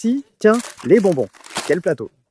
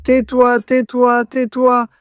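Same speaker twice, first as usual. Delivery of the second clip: loud, higher hushing command; urgent shush; 6 semitones higher, 6 dB louder, slower than usual. Pretend. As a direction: snap at them to shut up.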